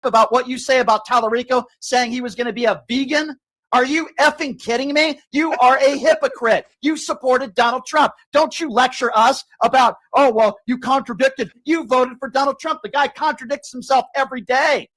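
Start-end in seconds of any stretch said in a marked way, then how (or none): 3.7-14.9 higher, pressing accusation at the caller; host scolding a caller who backs Trump, angry; heated rant. Real, not acted. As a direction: tear into the hypocrite caller. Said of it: "He's so mad".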